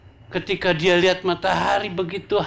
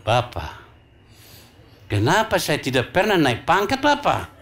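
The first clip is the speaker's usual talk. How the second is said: pleading soldier; 9 semitones higher than usual. Acted. Ambonese corporal complains to Bapak.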